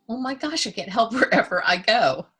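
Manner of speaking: lightly voiced kid in awe, gasping Oh my gosh; a hint of delighted wide-eyed child; childlike wonder. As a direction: say it like a little kid amazed by everything. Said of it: "like a little kid".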